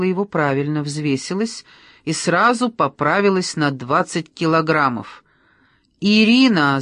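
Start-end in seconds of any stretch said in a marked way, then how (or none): 6.1-6.8 loud sharp call of "Ирина!"; shouting. A narrator's reading. Anna shouts at her friend entering, loud angry call. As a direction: shout her name in anger. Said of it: "закричала она".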